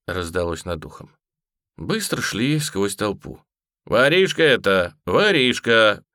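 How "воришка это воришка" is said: imposing. A narrator's reading. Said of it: "внушительно охлаждал Быбин".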